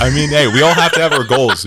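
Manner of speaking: loud, laughing through the words. Real, not acted. Host reacting to a friend's joke, laughing.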